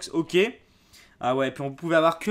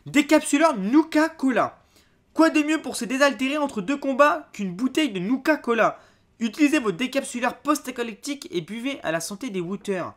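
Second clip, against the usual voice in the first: higher, projected product blurb; ad-style read-aloud; 7 semitones higher than usual. Real, not acted. Unboxer reading a product card to viewers, promotional read.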